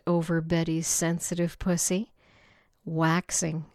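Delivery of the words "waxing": between gasps. Acted. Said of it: "Betty said between gasps".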